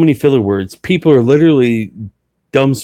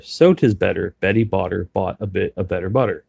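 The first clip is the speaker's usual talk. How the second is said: careful, steady Betty Botter drill, a bit softer; tongue twister recital; 3 dB quieter than usual. Shown as a demonstration. Auctioneer shows viewers the Betty Botter drill, carefully. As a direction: recite it like a first-day student. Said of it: "So the Betty Botter is".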